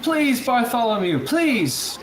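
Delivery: very high begging, falling on each please; desperate plea. Acted. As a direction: implore them in a high, strained call. Reed begs Bartholomew.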